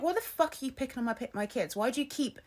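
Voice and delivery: indignant retold telling-off; pissed off. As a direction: retell your outrage, protective of your kids. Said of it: "she pissed me off so much".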